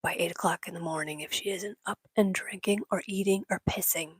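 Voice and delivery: serious vet. Retold or imitated. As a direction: deliver the grim news flatly, all business. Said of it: "all business and very serious".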